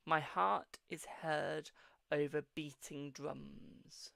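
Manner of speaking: slow, lingering reading of an affirmation; measured mystic reading voice; slow card reading. Acted. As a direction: read it out like a gentle oracle. Reads the positive card message.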